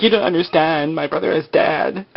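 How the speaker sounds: a hint of high-pitched pleading; mock distraught woman. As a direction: imitate a wronged sister, mildly hammed-up. Acting out Shannon's protest at gunpoint.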